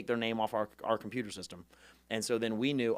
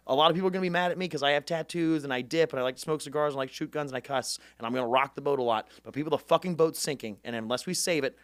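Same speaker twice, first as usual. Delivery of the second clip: rally speech; 3 semitones higher, 4 dB louder than usual. Retold or imitated. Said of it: "then I'd be like".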